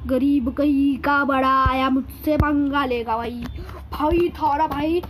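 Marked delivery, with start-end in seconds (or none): 3.9-5.0 swaggering self-title. Pretend. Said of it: "अपने आप को वो प्यार से बोलता हूँ".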